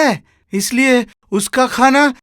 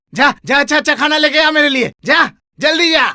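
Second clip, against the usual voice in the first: higher-pitched impatient command; angry order; 4 semitones higher, faster than usual. Acted. Master orders servant to fetch his food, angry. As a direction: send the servant off with a raised, impatient voice.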